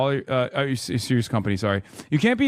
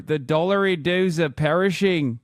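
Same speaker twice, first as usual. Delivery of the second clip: hammed-up Australian accent on the dollar dues; mock Australian accent. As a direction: mangle the Australian vowels as a joke. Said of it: "I'm Albanese".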